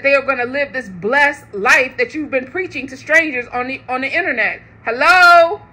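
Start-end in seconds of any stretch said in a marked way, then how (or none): 4.8-5.6 emphatic hello. Real, not acted. Calling out to the congregation.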